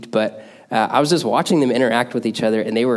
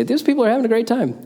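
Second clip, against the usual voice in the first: much higher, bright delighted exclamation; high delighted exclaim; 12 semitones higher, faster than usual. Retold or imitated. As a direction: lift it way up like an amazed outsider. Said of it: "would be able to intrinsically say".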